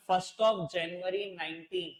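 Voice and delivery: very slow, word by word, for notes; slow dictation. Shown as a demonstration. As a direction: dictate each word slowly. Teacher dictating date slowly. (धीरे-धीरे लिखवाते हुए)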